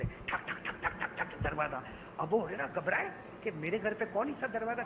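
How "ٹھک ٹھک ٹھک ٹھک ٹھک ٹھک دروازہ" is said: knocking sound. Retold or imitated. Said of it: "کوئی دروازہ کھٹکھٹا رہا ہے".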